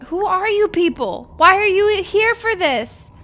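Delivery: high, loud outrage; loud, high indignant yell at random guests; indignant shout. Real, not acted. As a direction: shout at the intruding strangers. Strangers at the deathbed.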